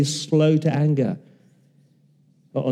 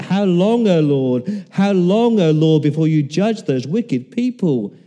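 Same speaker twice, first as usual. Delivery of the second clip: higher, louder pleading cry; crying out to God; 4 semitones higher, 4 dB louder than usual. Retold or imitated. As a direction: call out to heaven in anguish. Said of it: "the people in the Psalms cried out".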